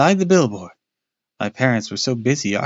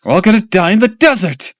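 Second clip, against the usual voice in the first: loud, gleeful doom voice; gruesome grin; 9 semitones higher, 8 dB louder than usual. A narrator's reading. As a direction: ham up the spooky prophecy. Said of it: "with a gruesome grin".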